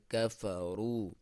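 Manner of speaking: کفرو slow, ra full and heavy; thick ra recited. Shown as a demonstration. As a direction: round and thicken the ra. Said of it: "ہم موٹا پڑھیں گے".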